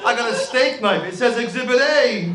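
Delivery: high, giddy flea-market friend showing off finds; mock bargain hunter. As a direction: gush over junk like a treasure. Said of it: "They're like".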